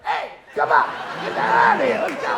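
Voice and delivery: loud, high shooing yell; mock shout. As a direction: bark him out of the room, hammed up. Someone shooing him out.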